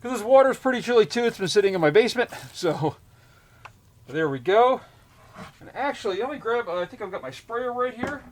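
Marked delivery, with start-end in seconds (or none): 5.6-8.2 muffled. Real, not acted. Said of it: "if I sound a little muffled".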